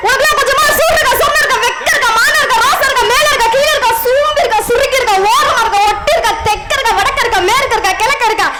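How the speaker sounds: rhythmic rattled-off tirade; memorised singsong scolding. Acted. Child scolds man with list of insults, singsong tirade. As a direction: reel off insults like a learnt song. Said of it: "மனப்பாடம் பண்ணி பாட்டு பாடின மாதிரி".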